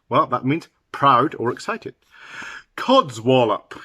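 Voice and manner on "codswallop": slow, forceful dismissal; forceful exclamation. Shown as a demonstration. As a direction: draw it out with some force. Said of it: "you might hear that rather force".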